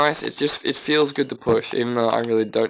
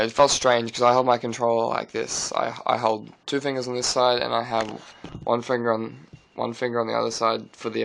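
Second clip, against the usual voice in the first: talking with a phone in mouth; phone held in teeth. Real, not acted. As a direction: speak around a phone between the teeth. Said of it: "I'm gonna have to put the phone in my mouth".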